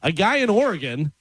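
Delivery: measured radio news read; deliberate read-aloud cadence; news item read. Acted. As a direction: read the odd story out to listeners.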